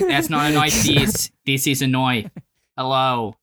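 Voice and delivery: slow, childish mock-Australian accent; baby Australian accent. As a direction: exaggerate the Australian vowels like a baby. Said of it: "That sound like a baby Australian".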